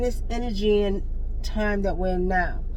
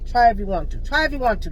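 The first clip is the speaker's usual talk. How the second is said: louder daring challenge, rising on the repeat; 4 semitones higher, 4 dB louder than usual. Real, not acted. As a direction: dare them, pushing harder the second time. Daring and warning people.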